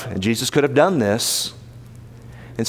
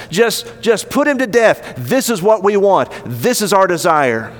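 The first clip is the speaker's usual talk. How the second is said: higher-pitched, insistent appeal to authority; insistent urging; 4 semitones higher than usual. Acted. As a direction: press the case like an accuser pleading. Accusers urge Pilate to execute Jesus.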